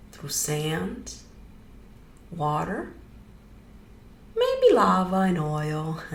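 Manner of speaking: easy guided-meditation delivery with pauses. Real, not acted. Leading listeners into grounding, guided meditation. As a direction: guide listeners gently, phrase by phrase.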